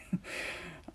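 low-volume breathy little laugh; quiet chuckle. Acted. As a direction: let out a hushed chuckle. Teacher's reaction to student.

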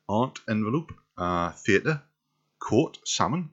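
northeastern English with rising lilt; Geordie accent. Shown as a demonstration. Trying father's Geordie accent on the word list. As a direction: lift the word endings in Geordie. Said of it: "a north, a northeastern English accent".

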